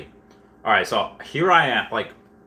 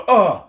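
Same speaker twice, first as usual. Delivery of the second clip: loud, higher "ugh" of impact; pained grunt; 8 semitones higher, 6 dB louder than usual. Retold or imitated. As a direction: grunt as if hitting the floor. Acting out fall off chair.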